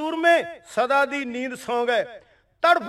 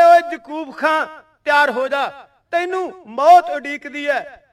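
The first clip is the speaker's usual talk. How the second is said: retold wrath. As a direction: throw the threat at the enemy commander. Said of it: "ਬਾਬਾ ਜੀ ਆਏ ਰੋਹ ਵਿੱਚ".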